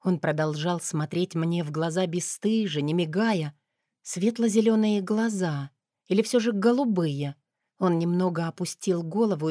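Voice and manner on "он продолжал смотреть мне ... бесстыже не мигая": ordinary delivery, nothing marked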